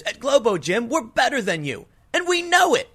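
mock smug superiority, rising high at the end; arrogant gym guy. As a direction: brag it like a cocky gym boss. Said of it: "playing the super arrogant exercise guy".

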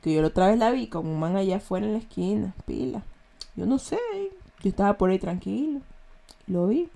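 soft, furtive Guayaquil street accent. Shown as a demonstration. Imitating a Guayaquil man passing on street gossip, furtive Guayaquil accent. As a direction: imitate a shady Guayaquil tough keeping it quiet. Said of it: "ya habla así como que".

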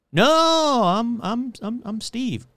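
high, loud stammering denial; flustered denial. Retold or imitated. Henry caught by a neighbor, stammering a high panicked denial. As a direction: panic and blurt a fake name. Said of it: "You'd think someone would go".

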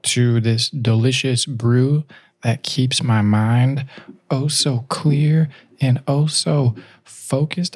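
slow, airy whisper; breathy whisper. Pretend. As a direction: breathe it out dreamily. Dreamy coffee ad line.

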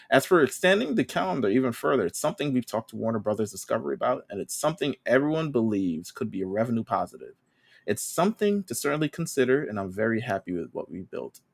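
light impression with lifted phrase openings; hint of an executive reading a careful statement; Tony Khan. Co-host resumes a wrestling boss's statement, lightly imitated. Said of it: "Should I do my Tony Khan voice?".

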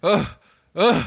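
overwhelmed and hammed-up, halting; mock despair. Acting a normal person who heard the news, in mock despair. Acts a distraught bridge jumper.

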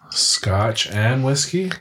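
slow, asking "Scotch and whiskey" as two drinks; puzzled question. Shown as a demonstration. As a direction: query "Scotch and whiskey" with a rising tune. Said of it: "No, it's Scotch whiskey".

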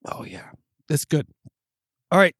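talking through hiccups; words broken by hiccups; hiccuping. Real, not acted. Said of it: "Sorry, I'm hiccuping".

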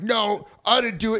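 high-pitched retold protest; mock protesting denial. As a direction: act out an indignant denial. Retold denial by accused buddy.

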